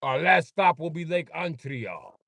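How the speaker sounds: high, slow put-on announcer voice; hammed-up cruise captain; announcing the stops of the lake cruise; mock captain announcement.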